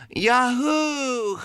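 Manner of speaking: high but mild whoop; second-try yell. Pretend. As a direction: make an effort at a high yell. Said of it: "you'll have to yell louder than that".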